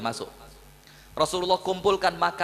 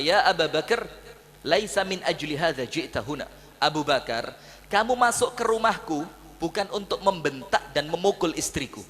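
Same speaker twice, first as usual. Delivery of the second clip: calm firm rebuke; 3 semitones lower than usual. Acted. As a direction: gently set the father straight. The Prophet calmly rebukes Abu Bakar. (teguran tenang dan lembut)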